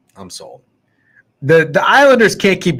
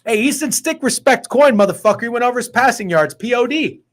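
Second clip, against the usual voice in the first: higher put-on voice, celebrating; Snidesy voice again; 8 semitones higher than usual. Cheering the bettor's win in a high put-on voice. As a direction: hype the bet in the high put-on voice.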